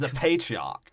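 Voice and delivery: "patriarch" repeated slowly as PAY-tree-ark; "patriarch" deliberately over-pronounced; odd pronunciation. Shown as a demonstration. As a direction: lean into the odd, stretched "patriarch". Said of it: "why I said it like that".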